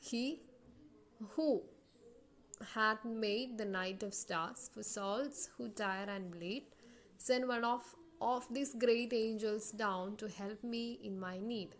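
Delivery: slow line with pauses, stressed syllables hit; "he" "who" "hath made the night" read slowly, leaning on the stressed beats; marking stressed syllables. Shown as a demonstration. Teacher showing the stressed syllables, slow and marked. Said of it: "dash ചെയ്ത്... stressed syllables".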